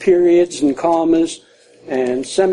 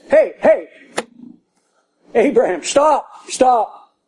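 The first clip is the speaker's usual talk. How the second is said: urgent call to stop; 5 semitones higher than usual. Acted. Angel urgently stopping Abraham.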